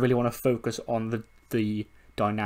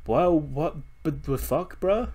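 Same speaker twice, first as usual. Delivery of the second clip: slow, then a much higher squeak; incredulous squeak; 5 semitones higher, much slower than usual. Retold or imitated. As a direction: drag it out, then squeak the last word. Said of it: "And she's like".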